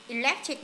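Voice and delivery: "Electric" with weight on LEC; stress on second syllable. Shown as a demonstration. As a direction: lean on the middle of Electric. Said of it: "nhấn âm hai này".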